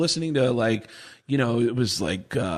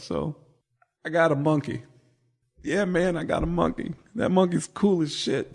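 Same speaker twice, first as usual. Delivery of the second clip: imitating Tony Woods; 2 semitones higher than usual. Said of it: "he goes".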